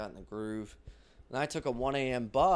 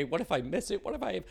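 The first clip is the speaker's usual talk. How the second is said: higher, fretful what-ifs; mock panic; 9 semitones higher than usual. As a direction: spiral into hammed-up worry. Mock worried self-talk.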